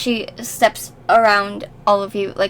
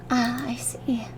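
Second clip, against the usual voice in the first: whispering; 5 dB quieter than usual. Acted. NPC keeps whispering.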